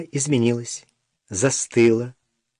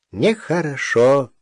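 reproachful; slower than usual. Acted. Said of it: "укоризненно добавил он".

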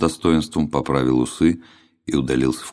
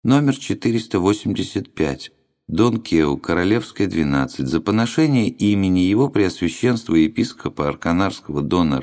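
droning monotone clerk; monotone reading; 5 semitones higher than usual. Acted. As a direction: read it out in one drone. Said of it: "монотонно прочёл".

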